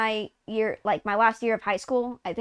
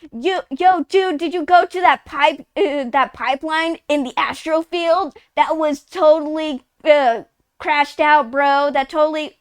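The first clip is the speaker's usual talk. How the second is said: mock slang dude; 3 semitones higher, 4 dB louder than usual. Mocking game characters spouting slang, hyped dude voice. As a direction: play an overexcited teen talking lingo. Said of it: "And they're like".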